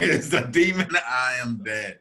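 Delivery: hammed-up scared cry about a demon; possessed. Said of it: "repeats friend's line, laughing".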